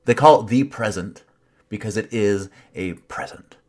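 mocking. Shown as a demonstration. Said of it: "I can barely say it".

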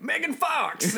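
high excited shout of a name; high-pitched girly exclaim; girl voice. Retold or imitated. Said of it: "that sounds exactly like her".

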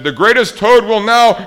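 loud, high, grand announcement; strange announcer. A narrator's reading. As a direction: announce it grandly until cut off. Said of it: "Then the voice said".

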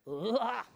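short mock groan of exasperation; frustrated groan. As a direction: let out an exasperated ugh.

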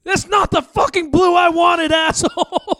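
high-pitched mock Bob Ross, swearing; squeaky painter cursing about paint; angry Bob Ross.

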